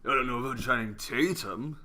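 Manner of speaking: emphatic repeat to a pushy co-host. Real, not acted. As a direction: say it again, firmly, to make the point. Repeats it louder after "come on.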